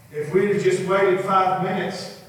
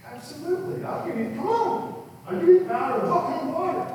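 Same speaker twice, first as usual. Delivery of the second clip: much higher, quick and eager; enthusiastic Jesus; 13 semitones higher, faster than usual. Acted. Jesus promising Peter the power, fast and high. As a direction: rush it out with upbeat generosity. Jesus voiced in retold story.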